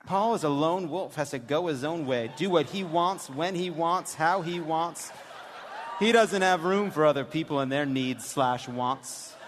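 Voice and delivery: mock-serious reading of a daughter's texts; deadpan daughter reading. Host reads the daughter's texts to a live audience, deadpan. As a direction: read it like a bored teen texting. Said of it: "when we do this dramatic reading".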